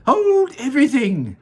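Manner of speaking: high, loud halt; commanding Wonka. Acted. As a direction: stop them all at once. Wonka halting everyone.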